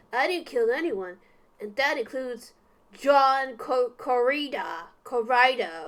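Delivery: lightly voiced hard-boiled detective; a hint of noir gumshoe. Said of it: "my gumshoe voice is coming out".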